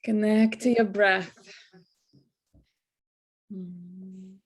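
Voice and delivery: measured, calming meditation voice; guided meditation. Real, not acted. Teacher settles the class into breathing, guided meditation. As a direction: guide them into the breath with long pauses.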